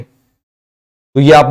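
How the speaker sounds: slow, drawn-out teacher prompt; slow words from a tired voice; slow, strained throat. Real, not acted. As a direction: ease the words out slowly to spare a sore throat. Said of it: "धीरे धीरे बोल रहा हूं".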